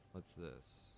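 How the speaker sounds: normal talking voice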